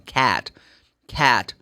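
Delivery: cat with a flat American æ vowel. Shown as a demonstration. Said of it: "This is American".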